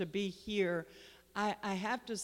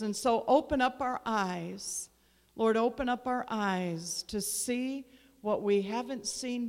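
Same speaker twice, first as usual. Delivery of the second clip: fervent prayer. Acted. Pastor praying over the congregation, swelling then settling. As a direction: pray it out over the church, rising then easing back.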